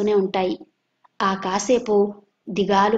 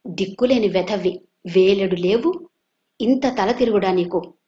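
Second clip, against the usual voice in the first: angry uncle. Retold or imitated. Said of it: "మరీ కోపం వస్తే".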